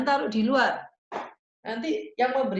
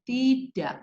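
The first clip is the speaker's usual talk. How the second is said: firm, higher-pitched "no"; firm refusal; 4 semitones higher than usual. Shown as a demonstration. Teacher showing a mother how to say no to a child, firm. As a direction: refuse firmly without shouting. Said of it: "yang tegasnya menurut Ibu itu harus, eh, dengan intonasi marah".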